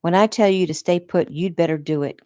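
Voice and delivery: John scolding his wife for leaving the room, heated. Acted. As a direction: scold her like a lieutenant. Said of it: "came the heated reply".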